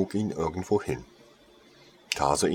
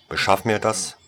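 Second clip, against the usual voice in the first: a louder, curt order; commanding; 6 dB louder than usual. Acted. Lady Contagion ordering the saleswoman to find it, commanding. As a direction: lay down the command.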